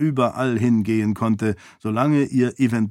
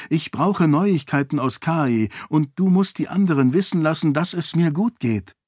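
higher, brisk heroine's voice; princess giving orders; 6 semitones higher than usual. Acted. Princess sends her servant for news, higher brisk instruction. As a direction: send off instructions in a raised voice.

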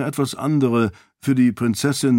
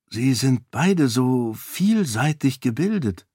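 amazed; 3 semitones higher than usual. Acted. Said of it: "sagte Sarene voller Staunen".

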